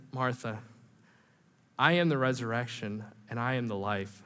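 soft, tender reassurance; gentle. Retold or imitated. Jesus gently answering grieving Martha, soft and tender. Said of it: "how gentle Jesus is with Martha".

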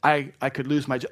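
husband whining to his wife about calls; mock whining. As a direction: complain like a caught spouse. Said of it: "don't start whining".

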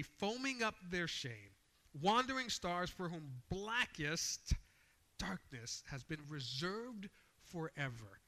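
slow, weighty denunciation; forceful reading with drawn-out key words; emphatic scripture reading. Shown as a demonstration. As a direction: lean hard on each image, then ease off at the end. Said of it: "with the emphasis that he's writing".

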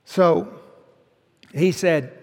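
ordinary talk, nothing marked

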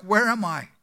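a lightly voiced confused old missionary; dazed dying man. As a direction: ask it as if just waking, lost. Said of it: "he opened his eyes and asked".

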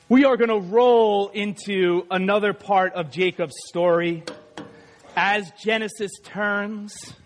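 low, slow melodramatic announcer; mock-dramatic serial title read; soap opera announcer. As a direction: draw it out like a soap opera intro. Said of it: "this is a soap opera".

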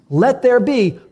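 high, loud, slow commanding call; a pastor acting God's voice, booming. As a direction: proclaim it like creation itself. God speaking creation, acted.

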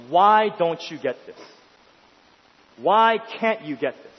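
mock yell, held back; retold frustrated yelling. Dad drilling nursery-age child in math, retold yelling. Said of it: "he started yelling at me".

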